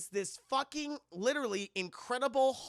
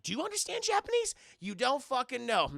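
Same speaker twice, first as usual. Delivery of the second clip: mocking teacher; 5 semitones higher, 3 dB louder than usual. Mocking teacher talking to class.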